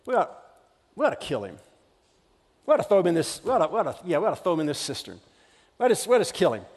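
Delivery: low, plotting undertone; scheming brothers. Retold or imitated. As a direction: whisper the plan to do him in. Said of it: "They're like".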